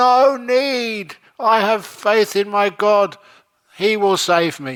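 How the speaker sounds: very loud, high shout. Telling a joke, the speaker voices the man answering the helicopter: retelling a shout. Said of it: "he shouted up".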